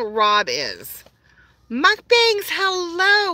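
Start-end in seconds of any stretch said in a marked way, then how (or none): 1.7-3.3 squealed high, bright hello to a friend; light up at seeing him join; excited greeting. Real, not acted. Greeting Mukbangs as he joins the live stream, thrilled and squealing.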